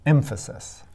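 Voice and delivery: Emphasis said EM-pha-sis, last two light; stress on first syllable. Shown as a demonstration. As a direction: hit the opening "Em" of Emphasis, let the rest fall. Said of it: "The first syllable is stressed".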